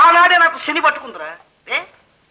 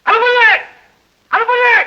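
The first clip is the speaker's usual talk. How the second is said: calling out to wife; 8 semitones higher, slower than usual. Acted. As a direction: call her name from the room. Calling wife loudly again. (భార్యను గట్టిగా పిలవడం)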